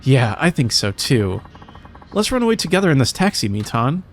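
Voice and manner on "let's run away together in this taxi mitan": high, fast, giddy lover's plea; eager young lover. Acted. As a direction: rush it out like a lovesick runaway. Lover urging elopement.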